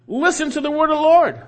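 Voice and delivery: booming proclamation to the false prophets; loud commanding call. Acted. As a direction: voice of the Lord, high and loud. Preacher voices God's command.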